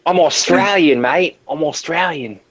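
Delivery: put-on Australian accent; mock Australian. Friend imitating the Australian attempt, mock Australian accent. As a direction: play an Australian for laughs. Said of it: "Sound Australian".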